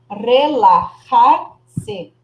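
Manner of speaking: Relajar-se very slow, strong trilled r at the start. Shown as a demonstration. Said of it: "o som do R forte aqui". (Relajar-se bem devagar, R forte)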